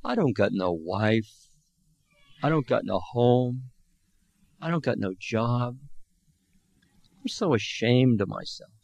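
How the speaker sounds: put-on a drunk confessing his loss, mildly tearful; sobbing. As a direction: break down, ashamed. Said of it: "the big man began to sob".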